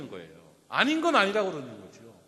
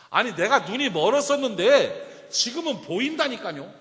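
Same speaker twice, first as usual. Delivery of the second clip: louder, slower, pressing each word; insistent retort; 4 semitones higher, 7 dB louder than usual. Retold or imitated. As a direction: insist he can see now. Retelling the healed man's reply. (또박또박 힘주어 우기듯)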